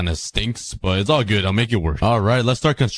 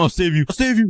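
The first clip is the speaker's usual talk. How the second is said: urgent heroic cry; 8 semitones higher, faster than usual. Real, not acted. Rushing to save horses.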